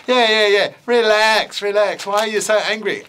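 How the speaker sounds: breezy, teasing little bat; bat puppet voice. Acted.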